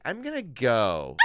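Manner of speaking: slow, drawn-out polite exit; uneasy date bowing out. Acted. Woman leaving an awful date, mock uneasy. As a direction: stretch it out to excuse yourself. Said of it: "She's like".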